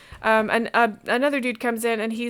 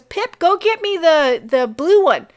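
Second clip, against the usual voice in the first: put-on loud, higher order to the boy; booming order; 7 semitones higher, 9 dB louder than usual. Innkeeper orders his son to fetch the cask, loudly. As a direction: call the boy over, bossy and loud.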